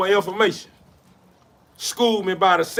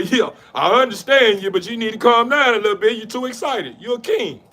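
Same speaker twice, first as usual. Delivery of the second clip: father figure; 5 semitones higher than usual. Acted. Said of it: "go with the father say".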